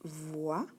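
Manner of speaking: "Voilà" split into vvvwa, then la; syllable by syllable. Shown as a demonstration. Teacher doing the waves for a young reader, "Voilà" in syllables. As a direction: sound out "Voilà" with held v and a pause before la. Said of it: "faire maintenant les vagues".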